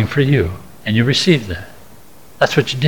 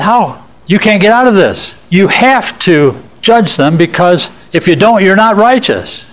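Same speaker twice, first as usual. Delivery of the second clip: taunting Satan; 6 semitones higher than usual. Retold or imitated. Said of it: "He said".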